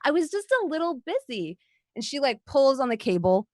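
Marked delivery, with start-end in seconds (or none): 0.0-1.6 fake-sweet villain. Villainess sweetly apologising to the party, mock sincere. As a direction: purr a false apology, amused. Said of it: "she's like".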